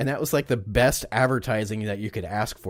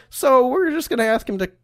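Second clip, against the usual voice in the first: high, loud, cheerfully callous boss; gleeful boss voice; 9 semitones higher, 5 dB louder than usual. Acted. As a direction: play the boss who's delighted by a terrible idea. Newspaper owner voiced in story.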